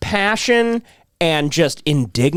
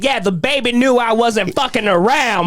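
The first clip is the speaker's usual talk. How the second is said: mock boasting; 6 semitones higher than usual. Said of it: "he's now taking credit. He's like".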